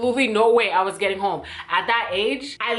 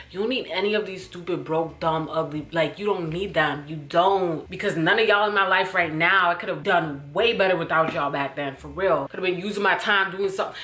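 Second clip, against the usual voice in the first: tender advice; 3 semitones lower than usual. Pretend. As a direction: talk gently to your younger self. Advice to younger self.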